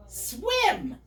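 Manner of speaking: mild, held-back triumphant shout; squeaky shout. Acted. Piglet announcing that he can swim, squeaky shout. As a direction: call it out as a small piglet's exclamation. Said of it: "shouted Daggy Dogfoot at the top of his squeaky voice".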